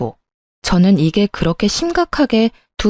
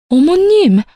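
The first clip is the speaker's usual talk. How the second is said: startled cry; 9 semitones higher, 3 dB louder, slower than usual. Acted. Wife startled by mother-in-law's slap.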